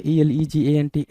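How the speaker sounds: spelled letter by letter. Shown as a demonstration. Teacher spelling out a word for students, slow and letter by letter. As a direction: slowly spell out each letter. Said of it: "एलिगेंट बोला".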